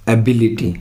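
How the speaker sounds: एबिलिटी with the stress on "bi". Shown as a demonstration. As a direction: model एबिलिटी, leaning on its second syllable "bi". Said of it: "ये इसका सही pronounce आ जाएगा".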